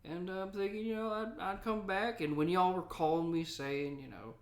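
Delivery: a hint of a grizzled gold miner; old prospector voice. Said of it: "and then there's Old Prospector".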